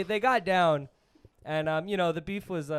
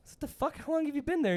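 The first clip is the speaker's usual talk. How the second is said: retold shock; 9 semitones higher, faster than usual. Retelling shock at ex-con.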